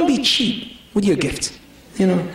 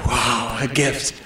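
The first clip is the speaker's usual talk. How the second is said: mock excited husband; 8 semitones lower, slower than usual. Brothers' fake-excited reaction.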